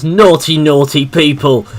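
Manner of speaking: mild mock shout of a scolding child; retold child's shout. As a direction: call it out like a scolding little niece, drawn out. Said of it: "and then just shouts".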